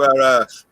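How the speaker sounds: "house" said like "ass"; "our house" sounding like "our ass"; local pronunciation. Shown as a demonstration. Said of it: "houses are called a-, asses here".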